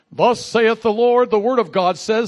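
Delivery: booming, slow mock-biblical decree; mock prophetic proclamation. Preacher acting out a command nobody ever gave him, mock prophetic proclamation.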